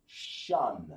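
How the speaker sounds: "Shun" as one long falling syllable; one joined sound. Shown as a demonstration. Teacher showing the class two sounds made one, "Shun" blended. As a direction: blend "Shun" into a single low, drawn-out sound. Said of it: "making them one sound".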